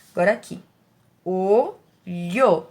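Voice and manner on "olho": "Olho" in two short beats, o, lho; syllable split. Shown as a demonstration. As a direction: separate o from lho. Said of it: "Duas sílabas". ("Olho" separado em duas sílabas)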